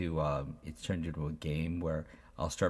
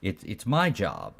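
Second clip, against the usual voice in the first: reassuring parent voice, a bit higher and louder; 5 semitones higher, 5 dB louder than usual. Retold or imitated. Father reassuring his eleven-year-old son, reassuring parent voice. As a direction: gently lecture a hugging child. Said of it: "the parenting brain kicks in. I'm like".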